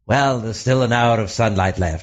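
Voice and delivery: a hint of a plucky 1950s horror-film hero; breezy old British movie hero; mock British film hero. Characters in old Hammer films setting off for the castle, lightly voiced. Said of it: "they'd say".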